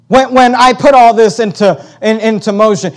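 God challenging Job. Acted. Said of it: "God shows up and says".

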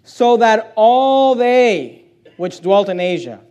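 slow, deliberate Bible reading; scripture reading. Acted. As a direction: read it slowly so every word lands.

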